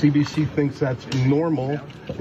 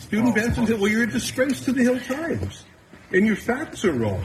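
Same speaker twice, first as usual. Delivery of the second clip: high, heated taunt across a room; yelling across the room; 8 semitones higher than usual. Real, not acted. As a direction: call out across the room at him. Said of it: "Stuart is yelling across".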